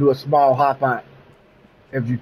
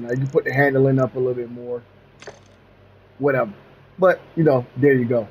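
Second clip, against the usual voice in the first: slight lisp on the s sounds; lisping from a sore jaw. Real, not acted. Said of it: "sorry about the lisping".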